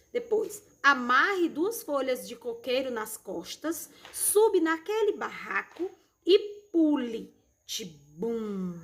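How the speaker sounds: animated read-aloud with swooping pitch; expressive children's story reading; storytelling to children. Acted.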